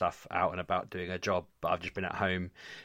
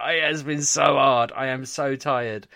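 louder, slow, mock-dramatic moan of tiredness; hammed-up exhaustion; 6 semitones higher, 6 dB louder, slower than usual. Dad hams up his tiredness to the podcast hosts, mock-weary. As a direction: drag it out like a worn-out martyr. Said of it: "I was just like".

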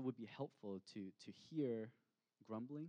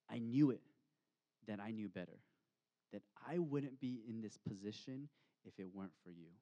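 grumbling at God; 7 dB louder than usual. Retold or imitated. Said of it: "grumbling points down to God and says".

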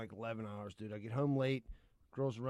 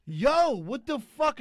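1 mock outrage; 5 semitones higher, 5 dB louder, much slower than usual. Retelling catching wife with earbuds.

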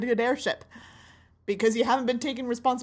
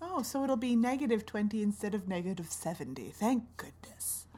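sarcastic; 7 dB quieter than usual. Acted. Freezing passenger answers captain's promise of warmer weather, sarcastically. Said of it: "I'm sorry for the sarcasm".

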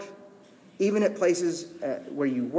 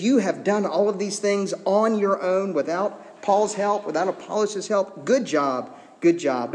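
sarcastic praise; 4 semitones higher than usual. Acted. Paul to Corinthians boasting of going it alone, sarcastic. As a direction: give hollow, teasing congratulations. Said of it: "being wholly sarcastic".

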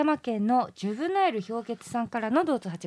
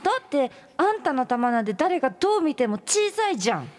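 higher-pitched taunt; mocking; 4 semitones higher than usual. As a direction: rub it in teasingly. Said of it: "バカにしてるところ".

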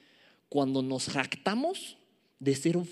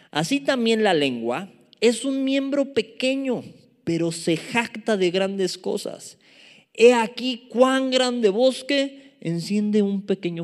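louder, emphatic scripture reading; lectura bíblica enfática; 4 semitones higher, 5 dB louder, slower than usual. Acted. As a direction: read the verse out slowly and forcefully. Lee el pasaje bíblico. (lectura bíblica enfática y pausada)

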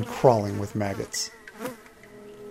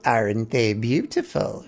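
put-on a broken old pirate voice, menacing and unhurried; rasping orc captain. A narrator's reading. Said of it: "she rasped".

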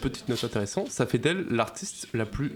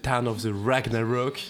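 slow, put-on English accent; playfully exaggerated English accent; mock English accent. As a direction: draw out the title like an Englishman. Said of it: "Je suis anglais".

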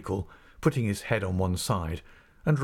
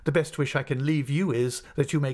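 dignified assistant master; 5 semitones higher than usual. Acted. Mell takes dignified leave.

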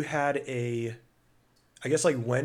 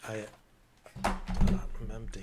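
slow, whispered "I'm empty"; mock despair; slower than usual. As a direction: drag it out like a dying man. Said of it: "repeats empty, slower and whispered".

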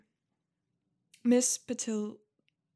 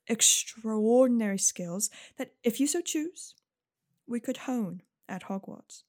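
lightly voiced counselor, careful and gentle; polite, encouraging school official; kind school counselor. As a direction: explain gently with deliberate pauses. Game master voices Miss Patil.

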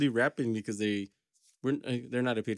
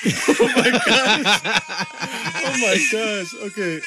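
wheezing through laughter, higher and louder, slow; laughing; 9 semitones higher, 8 dB louder, much slower than usual. Real, not acted. After the funny dog video, laughing it out. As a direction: gasp it out while still laughing hard.

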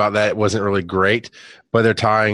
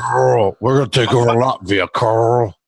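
a light Southern Georgia twang; lightly imitating Rick's Georgia accent; understated Georgia accent joke; mock Georgia drawl. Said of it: "his shitty Georgian accent".

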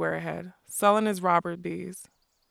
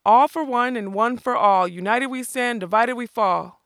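louder, higher, declaiming shout; shouted password; 4 semitones higher, 6 dB louder than usual. A narrator's reading. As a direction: bellow it out as the giant. Giant shouting password again after failing.

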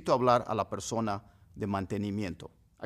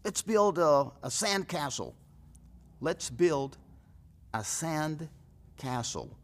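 playful suggestion; 4 semitones higher, much slower than usual. Retold or imitated. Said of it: "le decimos".

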